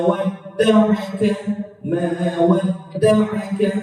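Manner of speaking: "wadda'aka" with the vowel stretched far too long; drawn-out wrong reading. Shown as a demonstration. Teacher showing the too-long reading of "wadda'aka" to avoid. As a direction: drag out "wadda'aka" as the mistake. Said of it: "Jangan panjang-panjang".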